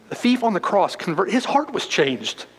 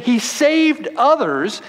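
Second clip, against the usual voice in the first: sarcastic; 6 semitones higher, slower than usual. Acted. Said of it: "You just hear the sarcasm in their voice".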